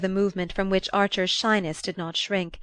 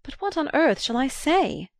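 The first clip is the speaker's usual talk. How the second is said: son's protest; 7 semitones higher than usual. A narrator's reading. Son protesting to father.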